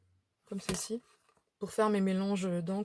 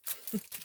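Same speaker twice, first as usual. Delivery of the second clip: quiet laugh to herself; 10 dB quieter than usual. Real, not acted. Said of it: "Je rigole toute seule".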